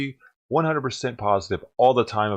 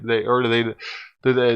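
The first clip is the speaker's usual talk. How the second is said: ordinary talk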